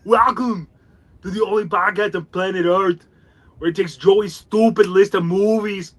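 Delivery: put-on Austrian action-hero accent welcome; Arnold Schwarzenegger impression. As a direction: announce it like a muscle-bound movie star. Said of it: "Arnie did that introduction".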